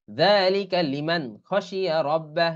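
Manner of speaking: slow, measured tajweed reading; Quran recitation. Shown as a demonstration. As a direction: recite the verse word by word. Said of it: "এগুলো কিন্তু কোরআনের আয়াত". (ধীরে তাজবিদসহ তিলাওয়াত)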